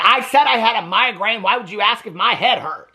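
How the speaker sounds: acted-out annoyed protest; retold irritated snap. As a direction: imitate someone irritated at a silly question. Retold irritated quote in a fight.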